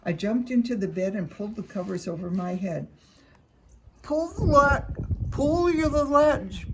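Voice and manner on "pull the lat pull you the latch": high, loud squeaky put-on voice; a wolf faking a granny squeak. A narrator's reading. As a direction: squeak it like a sick old lady. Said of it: "I squeaked".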